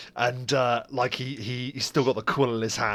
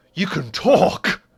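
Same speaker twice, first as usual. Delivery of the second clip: very loud, high, astonished dawning realization; 7 semitones higher, 8 dB louder than usual. Narrating a man who rushes to open the door and speaks, dawning realization. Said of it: "dawning realization comes awakening upon him".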